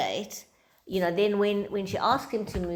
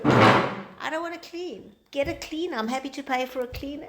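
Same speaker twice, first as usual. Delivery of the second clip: mock whiny husband; 7 semitones higher, 4 dB louder than usual. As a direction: whine it like a husband who refuses to clean. Speaker voices husband, relating to it.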